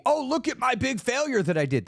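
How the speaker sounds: high, far mocking voice of a self-pitying show-off; mock show-off whine. Speaker mocking a failure show-off, high whiny put-on voice. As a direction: parody someone parading their failure.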